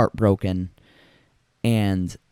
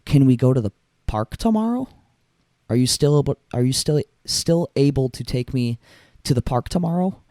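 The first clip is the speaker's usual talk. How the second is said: higher, lightly voiced small child asking; little daughter voice; 4 semitones higher than usual. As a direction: voice a hopeful little girl, pitched up. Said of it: "she looked up at him and said".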